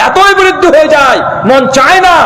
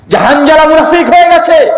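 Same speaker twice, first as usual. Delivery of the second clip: shouting in the street; 6 semitones higher than usual. Retold or imitated. Hanzala crying through Medina's streets, distraught shout. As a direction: cry out in despair through the streets. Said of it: "চিৎকার মারছে".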